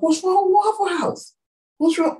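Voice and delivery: high, incredulous what's wrong; mock outrage. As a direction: act baffled that anyone would knock it. Retelling her reply to Trevor.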